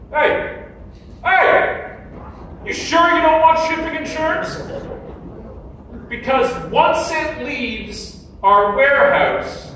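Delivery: high, loud, pleading sales pitch; pushy pop-up voice. Retold or imitated. The shop's pop-up nags a buyer at checkout, high and pushy. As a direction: lean in like a nagging sales pop-up. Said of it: "Then a pop-up comes".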